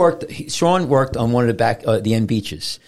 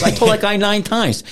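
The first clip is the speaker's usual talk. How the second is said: quoting Sean; 8 semitones higher than usual. Retold or imitated. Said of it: "He goes".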